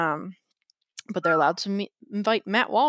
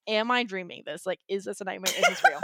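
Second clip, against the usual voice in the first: laughing disbelief. Retold or imitated. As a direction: let the disbelief tip into a laugh. Retold disbelief, ends laughing high.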